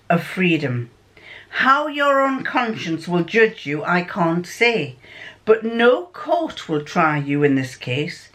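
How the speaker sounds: measured, formal detective pronouncement; Sherlock Holmes. Acted. Holmes addressing a freed prisoner, solemn and formal. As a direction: read it out deliberately, as a detective giving judgement. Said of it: "this is home speaking".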